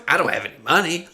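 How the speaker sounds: high, fast, laughing through it; laughing quote. Retold or imitated. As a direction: rush it out mid-laugh. Laughing imitation.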